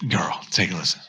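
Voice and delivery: put-on sassy girl. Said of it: "Just kidding".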